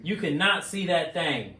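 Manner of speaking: slow, lightly mimicked analyst; Tim Ryan. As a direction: draw the quote out slowly, amused. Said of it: "that's how I heard it".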